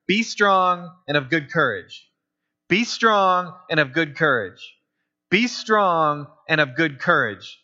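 slow, measured charge, repeated evenly; pep talk. Acted. God giving Joshua a pep talk, slow and firm. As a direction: land each phrase slowly and firmly. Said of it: "he's giving him the pep talk".

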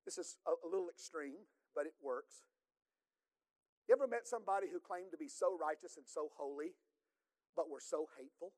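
hushed aside to the congregation; quiet aside. Acted. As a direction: lean in and share it gently.

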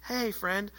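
lightly acted calm master; mock soothing. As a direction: gently get an agitated stranger's attention. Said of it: "and the master's like".

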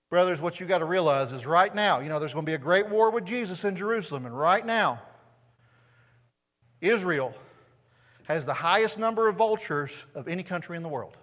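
a hint of a fired-up preacher; mock bad preacher. Mocking a preacher who misread the passage, light mock fervour. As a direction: ham up a misguided sermon. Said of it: "heard this passage poorly preached".

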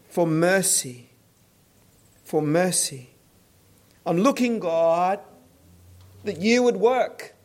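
earnest plea, slowing on the pleas for mercy; voicing an imploring prayer; heartfelt cry to God. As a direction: plead with God in deliberate, weighted phrases. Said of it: "he's crying from his heart".

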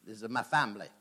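a touch of the Godfather; lightly voiced mob don laying down the law; Godfather impression. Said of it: "a bit like the Godfather".

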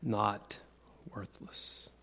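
a hushed, indignant whisper. Retold or imitated. Street rat whispers to the king's man, indignant and hushed. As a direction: whisper it with wounded pride. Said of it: "indignantly says".

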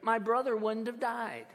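a touch of anger, voice lifted; angry reproach. Acted. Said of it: "can you hear the anger in her words".

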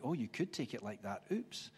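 quiet aside, popping up on Oops; dawning realisation. Acted. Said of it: "read it back and think".

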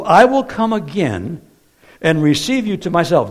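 emphatic, deliberate Bible reading aloud; scripture reading. Acted. Preacher reading Jesus' words to the congregation, emphatic scripture reading. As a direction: read the verse out firmly to a congregation.

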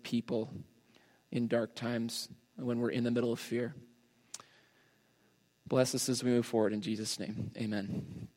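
measured, subdued prayer voice; earnest public prayer, gently understated. Real, not acted. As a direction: pray aloud for the congregation, unhurried and restrained. Leads an opening prayer.

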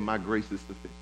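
God's promise, sinking from quiet to breathless whisper; preacher voicing God's comfort to the weary, fading into a whisper; soft voice of God, fading to a whisper. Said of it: "And God is saying".

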